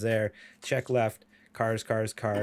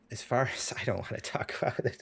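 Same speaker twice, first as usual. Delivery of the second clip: embarrassed whisper; 6 dB quieter than usual. Real, not acted. Embarrassed, dodging the story.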